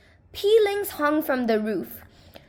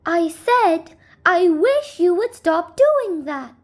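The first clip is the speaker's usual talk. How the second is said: higher, slow, insisting; insistent little man; 5 semitones higher, slower than usual. Acted. Little man repeats his complaint, slower and higher. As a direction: spell it out slowly to him.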